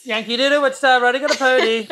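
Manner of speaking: pinched-nose singing voice; holding nose. Pretend. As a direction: sing with your nose held. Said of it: "while holding your nose".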